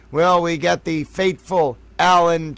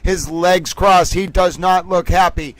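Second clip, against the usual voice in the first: put-on old-time newsreel announcer; news announcer. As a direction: announce it like a live broadcast. Mock live news announcer bit.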